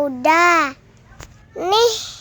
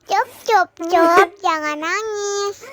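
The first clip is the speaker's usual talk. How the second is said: soothing; 4 dB quieter than usual. Acted. Soothing a crying puppet.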